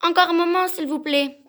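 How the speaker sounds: pleading. Acted. Wife begs Bluebeard for time.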